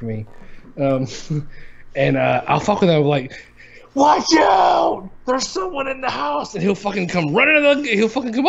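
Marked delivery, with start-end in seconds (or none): 3.9-6.5 high, panicked prank warning; mock alarm shout. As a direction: call out a fake intruder alert. Prank warning yelled at son.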